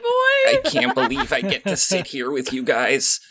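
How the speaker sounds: giddy disbelief at meeting idols; starstruck excitement. Acted. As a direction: gush like a thrilled superfan. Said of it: "vibrating in their seat from excitement".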